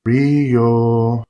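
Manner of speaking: soft, gentle sing-song call of a name; almost sing-song. A narrator's reading. Calling a frightened brother softly, sing-song. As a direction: coax him like a scared kid under a porch. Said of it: "I said in an almost sing-song".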